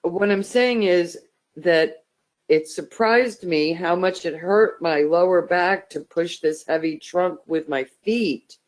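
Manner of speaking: ordinary talk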